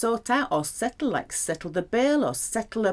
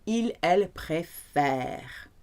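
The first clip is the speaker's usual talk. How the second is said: slow model sentence; 3 dB quieter, slower than usual. Shown as a demonstration. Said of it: "back to the grave".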